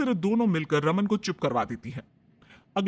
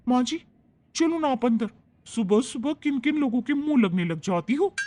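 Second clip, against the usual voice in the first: put-on young daughter-in-law; 6 semitones higher than usual. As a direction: gently coax her inside. Bride coaxes mother-in-law inside.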